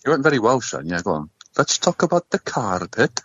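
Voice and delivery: put-on Pakistani accent; joking Pakistani accent voice; fake Pakistani accent. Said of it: "stop doing a fake, uh, Pakistani accent".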